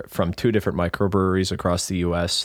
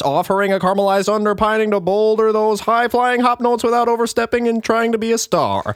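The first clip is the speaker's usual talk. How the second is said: radio voice; 7 semitones higher than usual. Shown as a demonstration. Reading the beer subscription blurb to friends, in a hammed-up radio voice. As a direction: sell every word like a vintage broadcast host. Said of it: "I'll use my radio voice".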